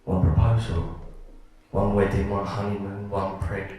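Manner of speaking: measured list with heavy pauses; narrative poem reading. Acted. Poet telling a couple's seven years together, measured poem reading.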